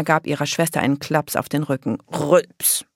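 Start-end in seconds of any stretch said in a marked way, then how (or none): 2.1-2.8 mimicked burp word; short imitation belch; spoken burp. A narrator's reading. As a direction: say the burp as a comic sound. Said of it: "machte Daka".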